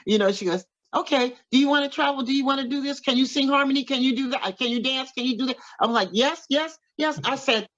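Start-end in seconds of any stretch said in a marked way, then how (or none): 0.9-5.6 a famous singer firing eager questions, pitched higher; eager rapid questions. Retold or imitated. A famous singer quizzing new singer. 6.1-7.2 quick excited yeses, pitched higher; eager yeses. Retold or imitated. Eagerly accepting the singer's offer.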